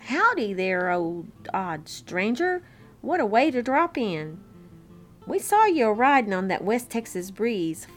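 lightly voiced friendly cowboy; hearty, lilting cowboy howdy; grinning cowboy greeting. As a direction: welcome the stranger with a bit of a grin. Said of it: "spoke up with a grin".

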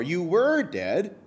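slow "You were dead", leaning on "were"; stress on WERE. Real, not acted. Preacher explaining the past tense, slow stress on "were". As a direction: stretch and punch "were" to mark past tense. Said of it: "You heard me emphasize it".

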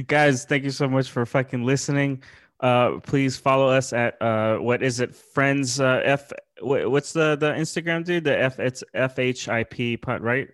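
tipsy, fumbling for the words. Real, not acted. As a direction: ramble like you've had a few. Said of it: "I'm so drunk right now".

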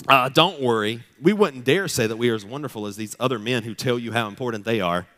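dry mock reassurance; reading Paul with a sarcastic edge. Preacher reads Paul's letter with mild sarcasm. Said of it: "see if you can hear the sarcasm".

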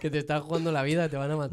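loud and laughing; laughing shout. Real, not acted. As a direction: yell it through laughter. Repeated line, shouted with laughter.

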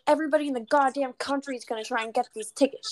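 mock indignant rush; ranting friend. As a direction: rattle it off like a worked-up friend. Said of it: "she was going on a rant".

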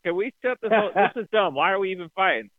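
hammed-up change of heart; mock exasperated Southerner. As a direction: plead to call the whole thing off. Acted Southerner giving up the war.

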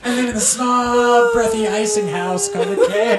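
high, slow, breathy little voice; mock starlet voice. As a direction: coo it like a silly, breathy starlet. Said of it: "That's why she sounds like that".

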